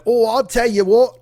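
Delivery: "what" drawn out high and slow; dopey guy rising on "what"; mock dumb dude. Mocking the statue rescuers, slow and dopey. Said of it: "eight white dudes are like".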